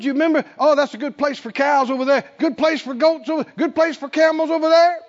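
high, quick, delighted reminiscing; a hint of an old man showing off his house; lightly voiced old man boasting. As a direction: point out the land proudly. Old Caleb reminiscing by campfire.

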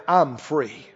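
low, soft firm words; quiet declaration. Shown as a demonstration. Addict quietly declares freedom while still craving. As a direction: say it softly under craving. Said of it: "open up your mouth and say".

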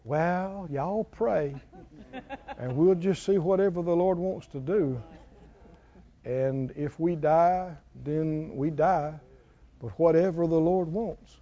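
mock a meek believer giving up; timid resigned prayer. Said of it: "David didn't talk that way".

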